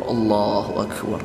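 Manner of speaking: low, slow, drawn-out pious murmur; mock piety. Preacher mimicking a man showing off his dhikr, mock piety. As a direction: imitate showy devotion in a heavy, slowed voice. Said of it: "Agar orang-orang mengira dia orang-orang soleh".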